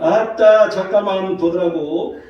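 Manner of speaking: slow, lightly put-on Jeolla accent; Jeolla dialect. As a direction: tease the Jeolla twang, slowly. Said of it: "전라도 말은". (느릿하게 흉내 낸 전라도 사투리)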